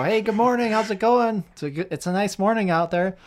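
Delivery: sunny, eager-to-please hello; cheery greeting. Retold or imitated. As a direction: greet the boss brightly to win him over. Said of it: "I'm in a good mood".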